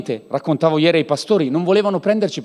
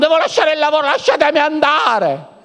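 mock frantic plea; 9 semitones higher, 3 dB louder than usual. Mock frantic believer being held.

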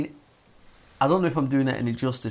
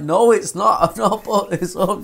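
annoyed; 8 semitones higher, 7 dB louder than usual. Retold or imitated. Yelling at caller.

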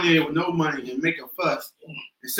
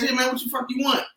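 rude customer reply; 4 semitones higher, 4 dB quieter than usual. Retold or imitated. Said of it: "you wanna say that, but".

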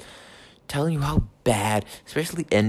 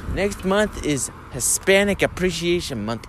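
higher, promo-style announcement; mock ad read; 6 semitones higher than usual. Mocking a Mariners broadcast promo, a light ad-read voice. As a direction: parody a radio promo. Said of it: "these ad reads".

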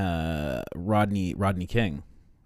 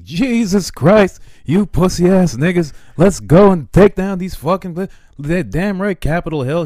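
much higher and louder furious yell; furious imagined MLK; 11 semitones higher, 12 dB louder than usual. Retold or imitated. Imagined MLK yells at people today, furious. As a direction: rage at them like a fed-up preacher.

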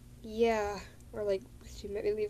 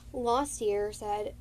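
normal talking voice

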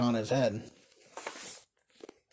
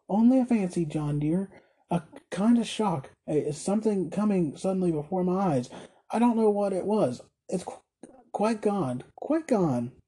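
shaken wife, reassuring; 4 semitones higher than usual. Acted. Shaken wife reassures her husband.

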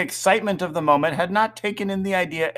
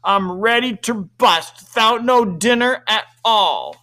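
put-on loud, higher-pitched grumbling child; gloomy boy; 6 semitones higher, 5 dB louder than usual. A narrator's reading. Peter fed up with the manners lesson, grumbling gloomily. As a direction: protest emphatically to mother. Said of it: "said Peter gloomily".

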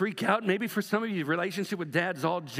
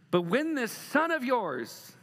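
bitter complaint; 6 semitones higher, slower than usual. Acted. Older son's bitter complaint quoted.

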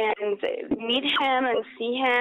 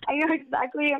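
tearing up; 3 semitones higher than usual. Real, not acted. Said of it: "I'm almost tearing up".

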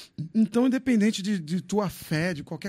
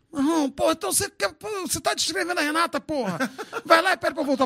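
therapist's retort; 8 semitones higher than usual. Retold or imitated. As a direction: scold him like a fed-up therapist. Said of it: "eu falava pro meu terapeuta".

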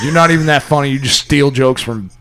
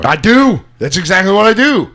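loud protest; 4 semitones higher, 5 dB louder than usual. Real, not acted. Defends himself against friend's advice.

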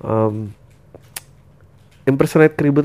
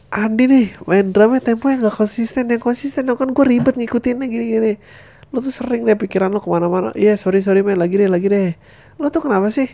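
higher voice, nagging drummer; complaining bandmate; 9 semitones higher than usual. Acted. Bandmate scolding drummer Andi, lightly voiced. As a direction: scold the drummer for bad tempo. Acted band quarrel.

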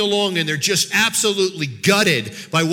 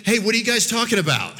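lightly acting clueless, a little higher; feigned ignorance; 4 semitones higher, faster than usual. Jesus asking the disciples as if he didn't know, feigned ignorance. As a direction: play innocent with a casual, quick question. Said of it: "As if he didn't know".

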